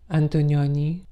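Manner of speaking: Antonioni with Italian vowels, rising; Italian pronunciation. Shown as a demonstration. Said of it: "you really have to say it like that".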